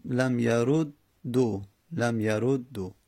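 لم یرو دو read slowly "lam yarud-du"; damma ending. Shown as a demonstration. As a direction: split لم یرو دو at the double d, ending in u. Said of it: "آخر هم دمه بدیم".

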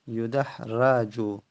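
یدحرجو said slowly, each syllable clear, with a on the ra; slow spelled-out form. Shown as a demonstration. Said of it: "الان یدحرجو، را فتحه دادیم".

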